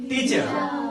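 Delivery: "टीचर" said as "tee-chuh", last vowel drawn out; silent final R. Shown as a demonstration. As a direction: stretch the end of "टीचर" into "uh", dropping the R. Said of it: "थोड़ा सा खींचेंगे".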